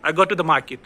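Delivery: quick "to the" in "I go to the market"; falling "I go to the market" with reduced middle; weak "to the". Shown as a demonstration. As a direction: stress go and market, swallow "to the". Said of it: "to the को मैंने क्या बोला".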